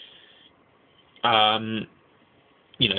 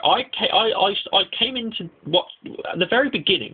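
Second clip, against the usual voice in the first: excited outburst; 10 semitones higher than usual. Real, not acted. Gushing about favorite show.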